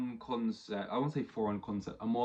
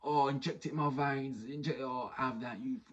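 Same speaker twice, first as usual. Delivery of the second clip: higher, hammed-up voice savouring it; imitating a fan who loves the drama; mock gleeful Twitter fan; 4 semitones higher than usual. Mocking Twitter fans who revel in it, hammed-up higher voice. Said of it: "these psychopaths on Twitter as well, who go".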